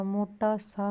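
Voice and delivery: मोटा सा slowly, each word apart; separated words. Shown as a demonstration. Teacher giving the accepted form, slow and separated. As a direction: space out मोटा and सा. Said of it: "होगा".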